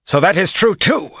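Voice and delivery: high, loud furious snap; snapping. Acted. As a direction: spit the words out in rage. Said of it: "Masema snapped".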